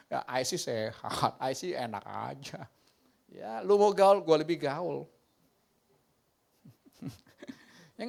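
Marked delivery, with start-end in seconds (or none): 0.1-2.7 a hint of a laid-back teenager; lightly voiced Gen Z kid. Gen Z kid answering an elder, slow and casual. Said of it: "Anak Gen Z ngomongnya gitu".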